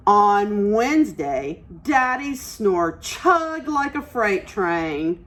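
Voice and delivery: slow, expressive storybook reading; picture book read-aloud; reading to children. Acted. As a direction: read it like story time for little ones. Teacher reads picture book aloud.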